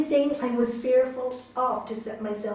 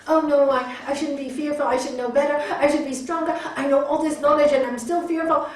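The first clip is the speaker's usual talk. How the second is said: self-scolding; 4 semitones higher, 7 dB louder, faster than usual. Retold or imitated. Self-scolding voiced for the class.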